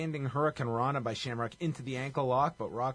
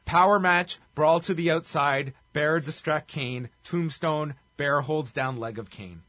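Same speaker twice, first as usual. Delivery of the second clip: louder, punchy note reading; 5 dB louder, slower than usual. Shown as a demonstration. Wrestling podcaster reading his match notes to co-host, punchy listing. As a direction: rattle off match notes as terse items. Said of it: "here are my notes".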